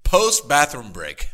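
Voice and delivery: loud, slow hype callout; loud announcement. Real, not acted. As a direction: call it out slowly and loud. Hyped podcast outro shout.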